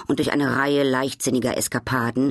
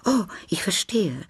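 higher, light relieved sigh of understanding; 9 semitones higher than usual. A narrator's reading. Duchess relieved the palmist is only a fortune teller, relieved. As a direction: let the worry go out of the voice. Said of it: "mit einem Gefühl großer Erleichterung".

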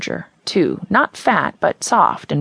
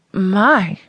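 hiccuping catch; 3 semitones higher, 3 dB louder than usual. Acted. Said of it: "almost sounding like she's hiccuping in the middle of the word".

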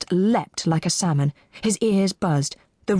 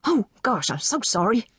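a touch flustered, higher-pitched apology; mumbled apology; 5 semitones higher than usual. A narrator's reading. Auctioneer dropping his programme, apologetic mumble. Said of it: "the auctioneer mumbled".

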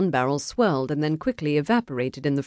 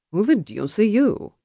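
higher, irked challenge; indignant demand; 6 semitones higher than usual. Acted. Duelist challenging the meddler, indignant. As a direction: demand to know who he is.

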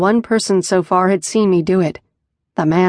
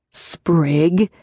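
warning. Acted. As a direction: caution him with just his name. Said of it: "Riker warned".

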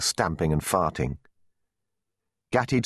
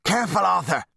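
high, urgent calling out; yelled warning; 11 semitones higher than usual. A narrator's reading. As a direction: yell a warning across the field. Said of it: "yelled Wat Harelip".

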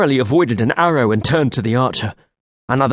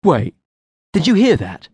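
alert; 6 semitones higher than usual. Acted. Alarmed listening.

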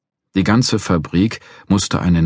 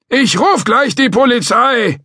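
put-on high, loud, slow old man threatening; a cranky old guard threatening to call police; old watchman; 6 dB louder, slower than usual.

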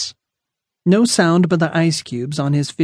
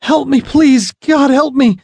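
high, desperate cry for help; in pain; 11 semitones higher, 5 dB louder, slower than usual. Acted. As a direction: cry out, hurting and begging. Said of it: "the feeble cry".

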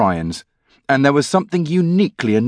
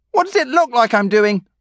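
deadpan younger brother; 11 semitones higher than usual. A narrator's reading. Dave answers from the bath.

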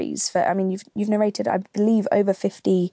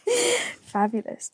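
drawn-out fabulous; 13 semitones higher, 4 dB quieter, much slower than usual. Acted. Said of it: "drawn-out reply".

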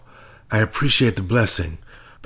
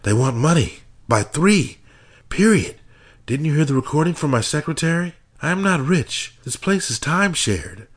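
whisper yelling; 10 semitones higher than usual. A narrator's reading. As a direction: rage barely held in, spat out. Husband yells at FBI, whispering.

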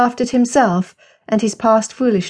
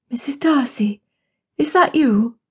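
tired voice; 4 semitones higher than usual. A narrator's reading. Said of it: "a tired voice called".

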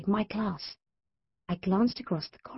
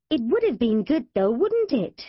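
wistful; 6 semitones higher, 3 dB louder than usual. Acted. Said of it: "in a wistful voice".

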